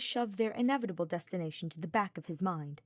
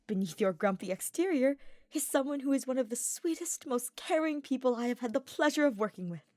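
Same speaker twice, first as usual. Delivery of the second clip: brighter, higher earnest knight voice; cheerful young nobleman; 6 semitones higher, 3 dB louder than usual. A narrator's reading. Ferdinand coaxing grumpy Hubert, higher cheerful knight. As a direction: Ferdinand coaxing, lifted and sincere.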